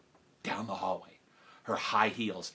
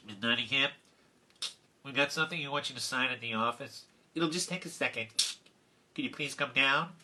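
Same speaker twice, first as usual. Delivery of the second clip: softer voice of an intercom secretary; PA announcement; 8 dB quieter than usual. Retold or imitated. Secretary asking teacher down to the office, PA voice. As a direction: imitate a soft-spoken speaker message. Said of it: "announcement came over the P A system".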